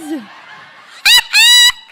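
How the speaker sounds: high, loud whooping laugh; loud burst of laughter. Real, not acted. Woman cracking up at her own joke, loud high laugh. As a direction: let out a big shrieking laugh at yourself.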